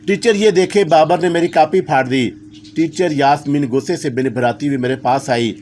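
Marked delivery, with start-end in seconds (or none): 0.1-2.3 put-on a mild tearful child's complaint; crying loudly. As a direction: whine to the teacher, only lightly crying. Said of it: "ऊंची आवाज़ में रोते हुए बोला". (हल्का रोते हुए शिकायत)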